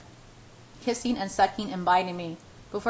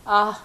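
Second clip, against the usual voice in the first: whimper; 6 dB louder than usual. Acted. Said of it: "I whimper".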